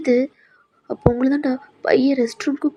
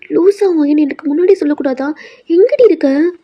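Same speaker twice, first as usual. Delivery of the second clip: worried scolding; 3 semitones higher, 4 dB louder than usual. Acted. Friend scolds her on the phone, worried and loud.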